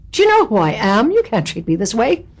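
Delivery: a touch of comic indignation; arrogant ex-wife. Acted. Guest quotes her arrogant ex-wife character, mildly indignant. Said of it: "arrogant, very funny character".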